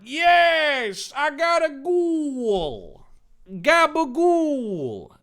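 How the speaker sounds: very high, slow triumphant cry; high excited yell. Acted. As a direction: celebrate the goal loudly. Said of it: "Dave yelled".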